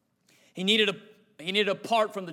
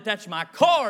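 excited recognition; 5 dB louder, slower than usual. Retold or imitated. Old man rejoices at found car.

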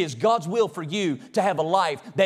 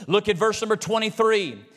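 ordinary talk, nothing marked

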